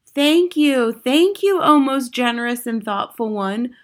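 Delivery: high, gushing witches' thanks; chorusing witches. A narrator's reading. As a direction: sing out your thanks like fawning old witches. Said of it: "chorused the ancient witches".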